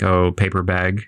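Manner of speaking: casual "bag" leaning toward an E vowel; slow, offhand "paper bag" with an E-like A; Seattle "bag". Shown as a demonstration. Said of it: "subconsciously when you don't know, you say".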